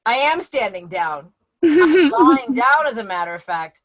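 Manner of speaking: slow, drawn-out husband retort; lightly voiced husband, words stretched out; husband lying down. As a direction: answer back slowly as the put-upon husband. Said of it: "him laying there going".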